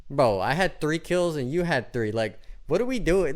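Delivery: retold exasperation at a teammate; retold annoyance. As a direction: spell it out like the math is obvious. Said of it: "I got so angry".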